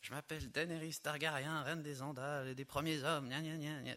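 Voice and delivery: high mock-regal queen reciting her titles; lightly lampoon a fantasy queen, pitched high; playful high-pitched royal proclamation; Daenerys Targaryen. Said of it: "ça fait un peu".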